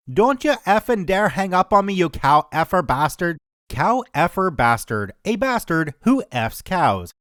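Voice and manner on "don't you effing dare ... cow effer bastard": lightly put-on Belfast accent, cursing; mock furious Belfast drunk; angry Belfast accent. Caller rings back to curse her, mild Belfast accent. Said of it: "I know my accent isn't even close".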